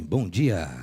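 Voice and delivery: low, booming radio-host greeting; radio announcer voice. Shown as a demonstration. Pastor jokes his hoarse voice sounds like radio. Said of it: "essa voz meio de radialista".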